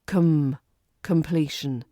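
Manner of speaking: "Com" as a weak kuhm; "completion" with kuhm; schwa com. Shown as a demonstration. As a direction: soften the o to uh. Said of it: "changes into the schwa here".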